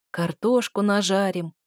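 slow, dreamy drawl. Acted. Prince dreams aloud of frying potatoes, slowly drawling. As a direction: savour the thought of fried potatoes. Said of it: "мечтательно протянул он".

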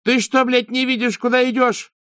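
high, loud, furious yell; screaming abuse at a stranger; angry shout. Acted. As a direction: shove him aside with your voice. Continues yelling at Graham.

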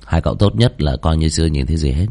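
low, measured warning; lightly menacing low voice; stern warning. Acted. Warns friends to forget it.

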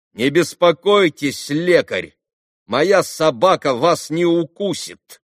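put-on boy insulting the doctor; loud insolent retort. A narrator's reading. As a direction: sneer lekar at him on purpose. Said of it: "громко отрезал Коля".

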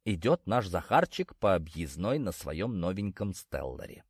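usual speaking voice

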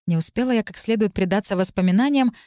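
ordinary delivery

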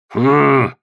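a sleepy, grumbled hm; grumbling grunt. A narrator's reading. Thor grunts at Phryne, half asleep, grumbling. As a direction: grunt him off like a drowsy giant. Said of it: "проворчал Тьор".

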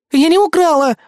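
whiny plaintive defence; plaintive whimper. A narrator's reading. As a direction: protest on the edge of tears. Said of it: "жалобно всхлипнула Кэсси".

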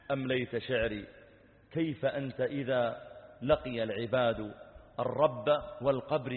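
measured, solemn recited verse; preacher intoning verse; poem recitation. Acted. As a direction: recite it as a grave admonition.

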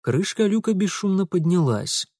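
plain reading voice

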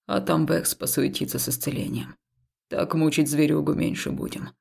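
calm temple man. Acted. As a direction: reason with her gently. Haul's voice continues. (спокойный храмовник, чуть ниже и тише)

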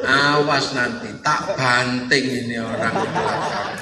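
low, menacing growing irritation; angry threat. Acted. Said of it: "tambah marah ini".

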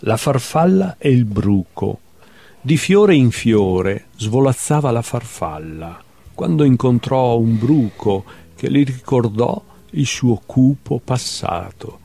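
measured literary recital with lifted titles; poetry reading. Acted. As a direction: read short animal poems, letting each ending drop away. Reads own poems aloud. (lettura poetica recitata)

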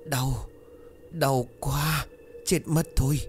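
high, breathless cries of labour pain; hurried, breathless pleading; panting in pain. Acted. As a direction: gasp the words out through the pain. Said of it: "giọng gấp gáp thở hổn hển".

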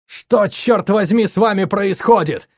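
high, loud, slow furious yell; angry yelling. A narrator's reading. Nikita screaming at the group, high slow furious yell. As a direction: hurl the question at them in rage. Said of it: "продолжил орать я".

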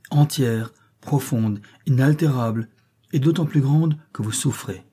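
earnest, resonant appeal; warm, vibrant voice. Acted. Jean pleads with despairing Harry, warm and vibrant. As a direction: reach him with heartfelt warmth. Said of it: "d'une voix chaude et vibrante".

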